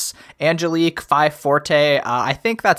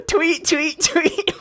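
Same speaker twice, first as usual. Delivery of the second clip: bird chirp; 13 semitones higher, much slower than usual. Pretend. Mock bird chirping bit.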